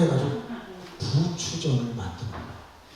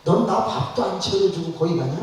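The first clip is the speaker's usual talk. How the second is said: mock husband yelling; 3 semitones higher, 3 dB louder than usual. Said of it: "남편이 소리를 치는 거예요".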